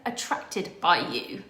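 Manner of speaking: very high, loud, gushing agreement; imitating Lorati's thrilled sign-up; ecstatic yes. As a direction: throw yourself in completely. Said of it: "Lorati was like".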